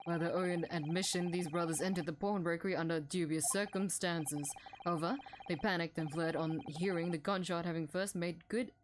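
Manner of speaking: a hint of a stern prosecutor; lightly voiced stern prosecutor. Narrating the judge's summary.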